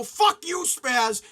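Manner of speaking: loud mocking yell of a passing driver; retold taunt. Strangers in a car yelling at him, mock yell. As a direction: bark it like a jerk from a car window. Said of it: "They go".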